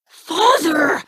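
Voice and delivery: sudden high call to her father. Acted. Daughter calling out to her father, eager high call. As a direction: call out across the room, eager.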